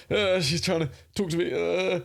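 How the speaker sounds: high, uneasy nervous voice. Shown as a demonstration. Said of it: "instead it's like".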